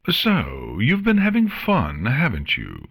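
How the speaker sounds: regal, commanding queen. Acted. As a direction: speak like a haughty queen. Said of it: "the changeling asked with a regal voice".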